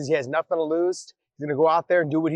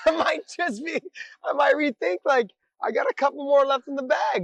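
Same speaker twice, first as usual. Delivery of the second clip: hammed-up fighter voice; 8 semitones higher than usual. Voicing Melvin, hammed up.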